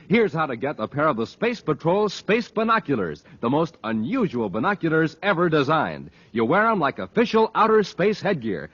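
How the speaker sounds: put-on eager, punchy cereal ad read to kids; old-time radio sponsor announcer; radio ad pitch. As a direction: sell it like the best offer ever.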